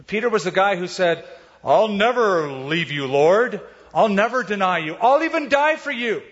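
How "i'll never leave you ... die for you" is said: mock-bold disciple's promise, building in pitch; self-confident vow. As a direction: swear loyalty with total self-confidence. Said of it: "That's pretty confident in yourself".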